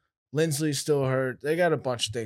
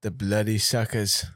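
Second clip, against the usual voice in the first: mock game announcer; 4 semitones lower than usual. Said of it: "Do you wanna announce this one?".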